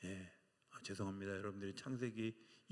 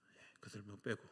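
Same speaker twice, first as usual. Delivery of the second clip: 1 whispered aside; 4 semitones lower, 8 dB quieter than usual. Real, not acted. Aside to himself in sermon.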